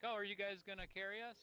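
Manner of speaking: high mocking whine; mocking whiny teammate.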